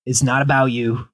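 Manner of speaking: put-on low, gentle old cat talking to a kitten; calm the new kitten like a weary old cat. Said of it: "he's like".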